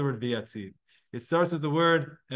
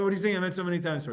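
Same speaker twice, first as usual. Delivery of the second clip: fast, teasing mock question; quick mild scoff at the chazan; 2 semitones higher, faster than usual. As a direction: needle him for repeating himself. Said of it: "almost like making fun of him".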